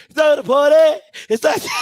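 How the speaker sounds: mock party chant breaking into laughter; juke joint performer. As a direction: chant like a juke joint band, then crack up. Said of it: "playing at the juke joint".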